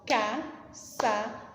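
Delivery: Caçadores slow, one beat per syllable; syllables split apart. Shown as a demonstration. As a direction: clap out Caçadores ca-ça-do-res. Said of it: "Alguns separam batendo palma".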